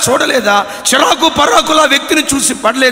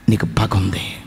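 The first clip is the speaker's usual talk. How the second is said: low, soft sorrowful voice; tearful angel; 11 semitones lower, 4 dB quieter than usual. Acted. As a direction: speak it through tears, quietly. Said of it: "కన్నీళ్లు విడుస్తూ చెప్తాడట". (కన్నీళ్లతో మెల్లగా చెప్పే దేవదూత)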